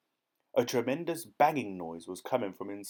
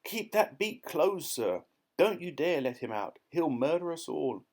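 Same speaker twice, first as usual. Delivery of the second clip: bellow; 5 semitones higher than usual. A narrator's reading. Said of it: "he bellowed".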